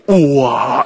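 big drawn-out wow of surprise; demonstrated amazement. Shown as a demonstration. Lecturer showing patients how to react when surprised, amazed. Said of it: "놀랄 때는 어떻게 리액션을 하고요".

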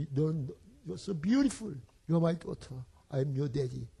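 soft, slow comforting father; soothing. Retold or imitated. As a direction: hush a crying child with love. Comforting crying daughter-in-law.

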